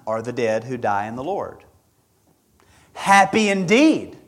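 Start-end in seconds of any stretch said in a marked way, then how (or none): 2.9-4.2 a hint of a higher, proclaiming voice for Happy indeed; slow, lifted declaration of Happy indeed; voice of the Spirit. Preacher voicing the Spirit's confirmation, lightly proclaiming. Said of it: "says the Spirit".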